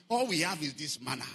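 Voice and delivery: low, let-down grumble; weary complaint. Acted. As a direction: grumble as if the novelty has worn off. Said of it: "now they stood and they began to say".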